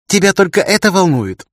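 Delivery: high, sharp retort; girl snapping at her captor; snapping back. A narrator's reading. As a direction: bite back at him, stung. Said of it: "огрызнулась девчонка".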